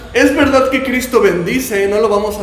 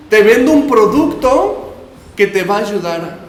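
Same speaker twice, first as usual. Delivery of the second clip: over eager infomercial; 3 dB louder than usual. Retold or imitated. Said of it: "como un infomercial".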